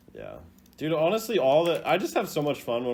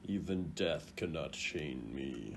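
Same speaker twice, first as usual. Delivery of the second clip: mock gravity; 5 semitones lower, 7 dB quieter, slower than usual. Echoing the dramatic line.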